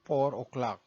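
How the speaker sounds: "four o'clock" with a rolled r and "oklak"; Tagalog-accented "four o'clock". Shown as a demonstration. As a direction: show the learner the Tagalog way. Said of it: "And the Tagalog accent is".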